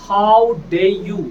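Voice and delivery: how dare you, loud and drawn out very slowly; slow, loud mock indignation; mock outrage. Shown as a demonstration. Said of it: "हाउ डेयर यू".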